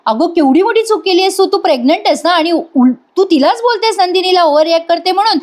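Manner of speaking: a lightly voiced stern husband; imitating angry scolding.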